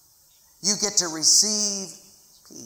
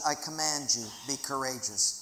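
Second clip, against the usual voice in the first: lower, softer firm command; God's command; 6 semitones lower, 7 dB quieter than usual. Acted. God commanding his people to be courageous, low and soft. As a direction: speak as God, calm authority. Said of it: "and God says".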